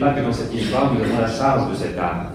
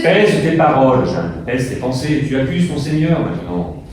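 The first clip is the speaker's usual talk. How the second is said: stern rebuke; 3 semitones higher, 5 dB louder than usual. Acted. Bishop rebukes Jeanne sternly.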